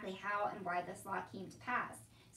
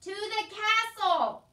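high, loud, drawn-out shout; slow shout; 10 semitones higher, 13 dB louder, much slower than usual. A narrator's reading. Soldier repeating himself to confused Meg, shouting slowly. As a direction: bellow it slowly for deaf ears. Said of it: "shouted the soldier".

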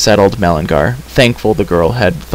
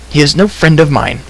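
higher, mildly cried denial; indignant cry; 6 semitones higher than usual. A narrator's reading. Terran disowning the creature, indignant. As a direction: deny it with raised pitch. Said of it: "cried Terran".

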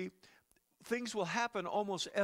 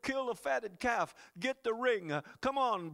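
louder and higher, jubilant father summoning the party; joyful calling out; 6 semitones higher, 6 dB louder than usual. Acted. Preacher voicing the father welcoming son home, joyful shout. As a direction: call out like a father throwing a welcome-home feast. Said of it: "he said".

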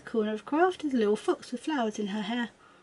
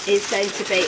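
talking while crunching; chewing between words; crunching chips; 6 dB louder than usual. Real, not acted. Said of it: "apologies for the crunching".

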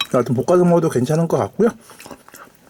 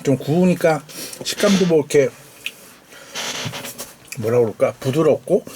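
usual speaking voice

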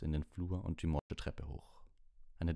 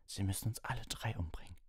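weakly; 5 semitones higher than usual. Acted. Weak injured Ron defying Black.

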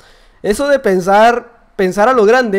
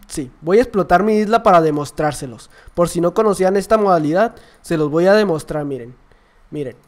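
lightly put-on calm, lower voice; normal Skywars YouTuber; 4 semitones lower than usual. Shown as a demonstration. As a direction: calmly present a demonstration to viewers. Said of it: "como un youtuber de Skywars normal". (youtuber tranquilo, voz algo más baja)

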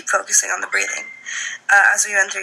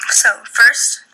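whispering; 5 dB louder than usual. Real, not acted. Whispered aside in meditation.

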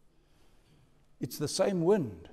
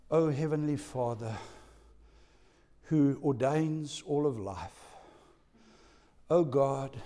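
mock pious prayer; 3 semitones lower than usual. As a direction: pray far too piously while drowning. Mock long pious prayer while sinking.

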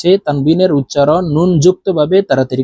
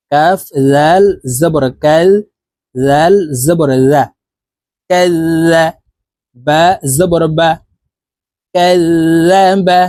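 spelling drill. Shown as a demonstration. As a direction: spell it out clearly for students to repeat. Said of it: "আমি বানান করে বলে দিচ্ছি". (ধীরে ধীরে বানান করে বলা)

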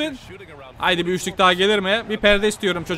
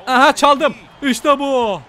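higher and louder, a burst of joy; excited cheer; 4 semitones higher, 5 dB louder, slower than usual. Real, not acted. Gamer cheering his own steal, excited shout. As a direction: yelp it out like you just stole the ball.

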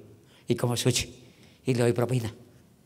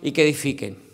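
mínimo enfático; 9 semitones higher, 6 dB louder than usual. Real, not acted. Exige entusiasmo al público.

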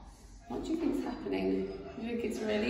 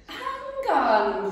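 higher, louder quacky call; quacking duck; 8 semitones higher, 7 dB louder than usual. Acted. Duck stopping the rat, quacking. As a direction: quack it out quickly. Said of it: "quacked the duck".

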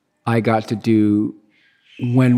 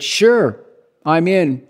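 eager yes; 5 semitones higher, 5 dB louder, slower than usual. Retold or imitated. Eagerly accepting Swayze's stunt job offer.

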